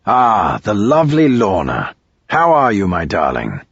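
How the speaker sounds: a lightly voiced British charmer greeting her; posh charmer. A narrator's reading. Royce greeting the lovely Lorna with light posh charm.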